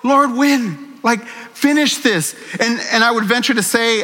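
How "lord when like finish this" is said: crying out to God. Retold or imitated. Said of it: "I cry out to him and go".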